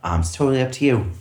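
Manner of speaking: fast chirpy waiter script; customer service voice. Shown as a demonstration. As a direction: run the table script brightly. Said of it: "customer service voice".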